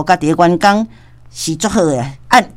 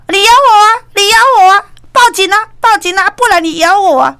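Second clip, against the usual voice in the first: provocative taunt; 10 semitones higher, 4 dB louder than usual. Retold or imitated. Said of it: "小伟哥甲电话过来讲".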